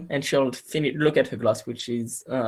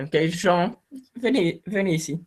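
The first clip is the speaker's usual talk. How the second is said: French phrases, quick and higher pitched; speaking French; 6 semitones higher, faster than usual. Acted. The lady calls her chauffeur Jean in quick, higher French. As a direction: call the chauffeur over in French, brisk and higher. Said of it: "she'll speak in French".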